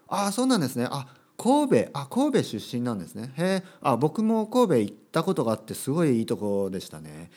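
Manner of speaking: lively natural chat. Shown as a demonstration. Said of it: "とかね".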